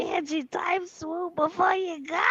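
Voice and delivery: through a tube. Real, not acted. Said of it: "You're talking through a pipe".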